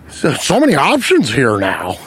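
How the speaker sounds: mock old-timer with a swooping tune; lightly voiced bewildered older man; dithering older customer. Line-cutter staring at the menu, mock dithering voice. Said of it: "and he goes".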